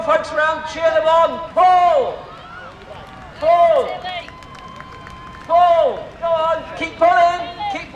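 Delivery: tug of war. Real, not acted. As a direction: egg the team on, high and urgent. Leading crowd tug of war.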